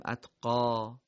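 اتقا with a long final ā; pausal reading. Shown as a demonstration. Teacher demonstrating how to stop on the word. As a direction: hold the last ā in اتقا. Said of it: "چی باید بخونیم در وقف".

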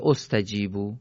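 استجیبو begun with "o": ostajibu; damma on alef. Shown as a demonstration. Teacher offering a third reading, استجیبو said "ostajibu". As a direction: open استجیبو on a short "o" sound.

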